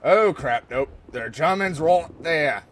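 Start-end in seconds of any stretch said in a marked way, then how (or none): 1.1-2.6 a touch of Aussie in the voice; accidental Australian accent. Real, not acted. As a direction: slip into a light Australian accent. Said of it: "I just went into an Australian, yeah, Australian accent".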